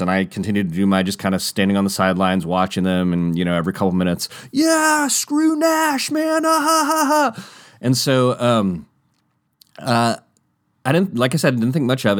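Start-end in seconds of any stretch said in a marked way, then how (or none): 4.5-7.4 very high, dopey skater voice with fake laugh; mock skater dude. Teller mocking the skaters' chatter, high and dopey. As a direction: lampoon the dumb bro banter.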